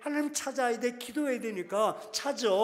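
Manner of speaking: loud, pleading prayer cry; crying out to God. Shown as a demonstration. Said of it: "자식의 문제가 있으면". (자식 문제로 하나님께 크게 부르짖기)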